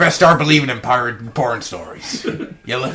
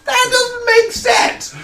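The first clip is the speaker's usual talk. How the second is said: exasperated; 4 dB louder, much slower than usual. Real, not acted. Outburst in drunken podcast banter.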